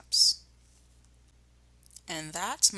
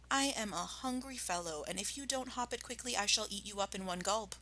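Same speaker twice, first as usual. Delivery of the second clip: softly menacing; 3 semitones higher, 9 dB quieter than usual. Acted. Mister Fox quietly threatening to eat Rat. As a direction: purr the threat sweetly. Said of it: "he said softly".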